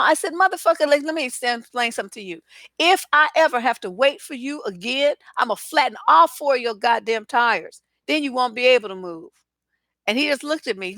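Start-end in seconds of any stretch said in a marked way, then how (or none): 0.3-9.3 mock furious threat, a touch higher; retold cussing out. To the man blocking her space, a retold angry threat. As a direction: replay the blow-up at the neighbor's friend. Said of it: "I was cussing his fucking ass out".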